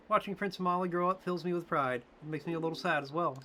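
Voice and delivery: high motherly attendant. Acted. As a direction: pitch way up as a fond caretaker talking to Mort. Voices female character.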